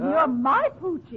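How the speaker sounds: "my" leaned on in a doting claim; stress on my. Acted. Wife to her darling husband, stress on "my". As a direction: punch "my", then let "Poochie" fall. Couple's doting back-and-forth.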